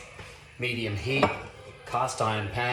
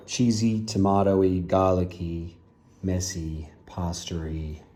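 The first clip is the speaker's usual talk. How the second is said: excited listing; 2 semitones lower, 5 dB louder, much slower than usual. Real, not acted. Loud enthusiastic food list.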